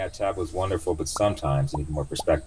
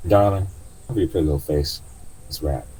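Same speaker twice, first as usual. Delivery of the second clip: louder, caring auntie order; old cab driver; 7 dB louder than usual. Acted. Driver handing passenger a wrap, loud fussing voice. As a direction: tell him to cover up like a fussing old driver.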